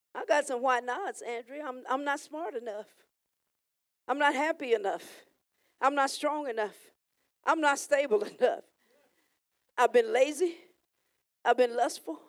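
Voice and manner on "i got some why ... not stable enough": soft confession. Acted. Confessing softly to God.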